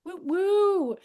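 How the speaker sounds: high, bright cheer to welcome the guest; excited high-pitched woo. Real, not acted. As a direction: whoop like a cheering crowd. Host cheering for first candidate.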